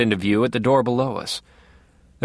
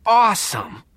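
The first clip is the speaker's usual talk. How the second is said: breathed awe; 9 semitones higher than usual. A narrator's reading. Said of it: "he breathed".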